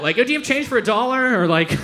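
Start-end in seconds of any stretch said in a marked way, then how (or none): 0.2-1.4 quick, higher, breezy question; very casual. Acted. Asking a stranger for change, imitated very casual. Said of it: "Very, very casual". 1.7-1.8 higher, offhand imitated question; very casual. Stranger asking the time, imitated very casual. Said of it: "Very, very casual".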